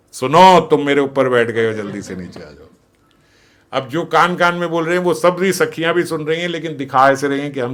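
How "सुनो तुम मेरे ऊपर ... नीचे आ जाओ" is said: louder, mock-secret blurt; a secret said far too loud; tipsy loud whisper that isn't one; loud "ear whisper". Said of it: "धीरे से नहीं बोल रहे हैं".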